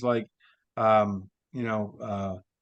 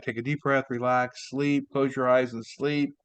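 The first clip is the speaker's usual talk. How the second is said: hypnotic suggestion; 2 semitones higher than usual. Shown as a demonstration. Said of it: "whenever you hear me say things like".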